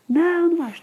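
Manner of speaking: mother imitating her son's sulky no; stubborn child. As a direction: pout it out like a stubborn little kid. Child refusing in acted dialogue.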